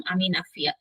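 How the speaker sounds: soft casual আমি নাফিয়া; casual self-introduction. Shown as a demonstration. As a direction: say আমি নাফিয়া softly as everyday talk. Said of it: "casually তো আমরা এভাবেই বলি".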